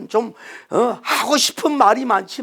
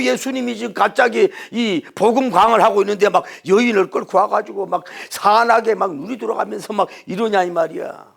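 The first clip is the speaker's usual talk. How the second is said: ordinary talk, nothing marked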